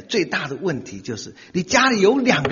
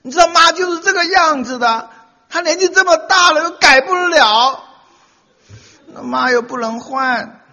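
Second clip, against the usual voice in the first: hammed-up husband reasoning, rising; husband soothing wife; 10 semitones higher, 8 dB louder than usual. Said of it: "跟哭哭啼的老婆说".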